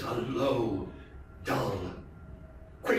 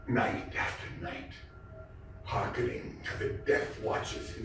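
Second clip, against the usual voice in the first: hushed; 9 semitones lower, 6 dB quieter than usual. A narrator's reading. Tense listening in dark.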